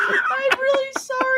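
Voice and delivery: helpless laughing fit; sorry through giggles. Real, not acted. Laughing fit, can't read.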